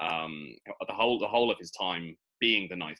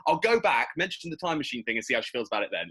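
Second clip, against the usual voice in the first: much higher and louder, a hammed-up sudden realisation; scatterbrained Doctor impression; 5 semitones higher, 5 dB louder than usual. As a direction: play the Doctor as a giddy, forgetful goof. Mocking the Doctor's sudden return.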